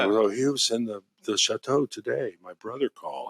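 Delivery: put-on a light, half-hearted French accent. Retelling what the French winemaker said, in a mock French accent. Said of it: "There, that's my French accent".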